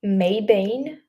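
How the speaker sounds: "May Bain" with "ay" in both words; "May Bain", trying it as may-bayn; tentative pronunciation. Shown as a demonstration. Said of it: "how I'm supposed to pronounce it".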